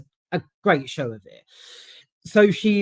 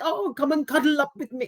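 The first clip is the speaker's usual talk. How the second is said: cooing Grandma; 9 semitones higher, faster than usual. Retold or imitated. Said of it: "and she's like".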